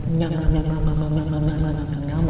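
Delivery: rapid run of noms; mock munching. Imitating them eating your bad energy, mock munching. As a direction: imitate greedy eating, nom after nom. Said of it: "they eat your bad energy".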